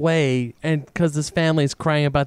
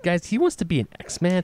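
lightly whiny pretend crying; mock crying; 3 semitones higher, 3 dB quieter than usual. Imitating the crying kid who wants in, mock tearful. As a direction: plead with a touch of fake tears. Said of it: "He's crying".

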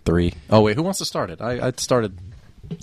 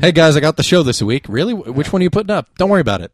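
acted banter; 5 semitones higher, 5 dB louder than usual. Acted exchange between hosts.

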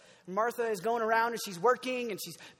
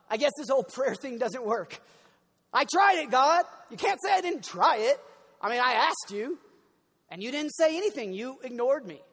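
mock frustrated complaint; 2 semitones higher, 6 dB louder than usual. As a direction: whine like someone who feels ignored. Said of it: "we're like".

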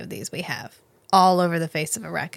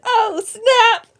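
much higher and louder, thrilled shock; excited exclamation; 7 dB louder than usual. Retold or imitated. Crowd reacting to Paul's tears, excited exclamation. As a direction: squeal it like juicy gossip.

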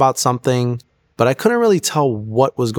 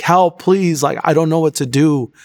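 higher-pitched, mildly pleading retelling; retold crying out; 5 semitones higher than usual. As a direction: recount a plea for help, pitch lifted. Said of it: "crying out to God".

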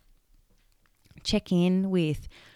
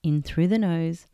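guided meditation. Acted. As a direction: ease the listener into stillness, gently. Leads a heart-space meditation.

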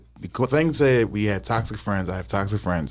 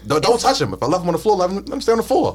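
raised, higher-pitched angry rant; yelling across the room; 8 semitones higher than usual. Retold or imitated. Retold rant about keys.

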